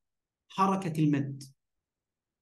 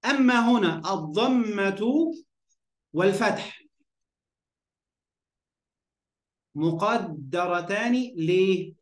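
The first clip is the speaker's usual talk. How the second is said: slow dictating; much slower than usual. Shown as a demonstration. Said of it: "teacher spells out rule slowly".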